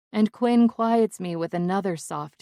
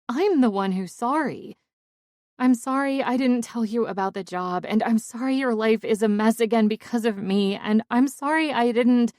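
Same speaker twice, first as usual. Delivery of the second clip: louder, rushing, pleading apology; frantic apology; 6 semitones higher, 5 dB louder than usual. Acted. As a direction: pour out the apology before he can stop you. Tearful apology to Quinn.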